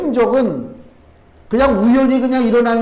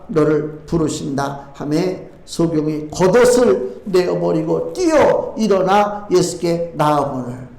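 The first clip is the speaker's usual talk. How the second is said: slow, lower-pitched Bible reading; scripture reading; 5 semitones lower than usual. Acted. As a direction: read the verses out slowly, in a low register. Reads scripture aloud. (낮고 느린 성경 봉독)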